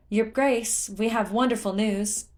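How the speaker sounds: ringing, joyful hail; jubilant call. A narrator's reading. Torafu brings the prince wonderful news, jubilant call. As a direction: announce it high and loud, elated. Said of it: "Torafu called, jubilant".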